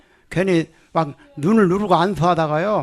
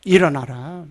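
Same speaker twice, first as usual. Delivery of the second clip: command; slower than usual. Shown as a demonstration. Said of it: "명령하세요".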